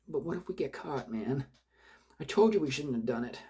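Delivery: frightened accomplice pleading with his partner, high and panicky. Acted. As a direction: voice the scared accomplice, pitched high. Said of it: "had a note of panic in it".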